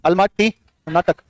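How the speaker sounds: अलमाटी कर्नाटक said slowly with a falling end; slow recap. Shown as a demonstration. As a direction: repeat the pair slowly, closing it down. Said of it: "link up करो".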